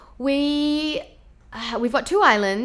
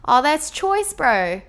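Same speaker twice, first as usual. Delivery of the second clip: higher, approving Kiwi bro voice; cheeky, raised Kiwi street accent; Kiwi bro lingo; 7 semitones higher, 3 dB louder, much slower than usual. Shown as a demonstration. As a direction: enthuse like a New Zealand bro. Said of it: "the classic New Zealand lingo".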